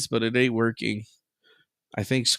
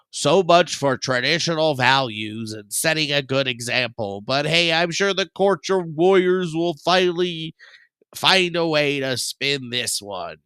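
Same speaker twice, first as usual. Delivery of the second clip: news read; 3 semitones higher than usual. Acted. Reading news headline.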